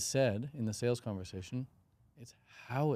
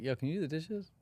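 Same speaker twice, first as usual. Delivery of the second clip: polite request; 4 semitones higher, 4 dB quieter than usual. Retold or imitated. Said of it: "Instead of, like".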